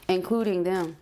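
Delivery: normal talking voice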